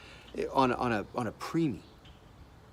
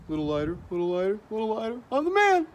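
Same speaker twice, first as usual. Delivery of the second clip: mock triumphant painter; 9 semitones higher, faster than usual. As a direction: build from working self-talk to a high, hammed-up boast. Mock porch painter building to triumph.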